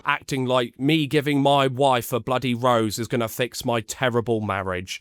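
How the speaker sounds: ordinary talk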